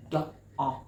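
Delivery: "Do, ah" in separate pieces, dog without its g; sounded-out vowel. Shown as a demonstration. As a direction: break the word open to isolate "ah". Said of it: "Do you hear the ah sound".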